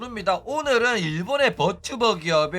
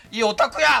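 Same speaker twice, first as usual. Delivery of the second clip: louder, playful jeer at a nerd; mock name-calling; 3 semitones higher, 5 dB louder than usual. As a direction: hurl it like a heckling viewer. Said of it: "막 이러는 거야". (장난스럽게 큰 소리로 놀리는 시청자 흉내)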